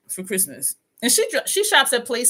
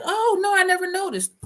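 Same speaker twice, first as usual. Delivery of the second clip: surprised giver; 10 semitones higher than usual. Retold or imitated. Gift giver's surprised reply retold.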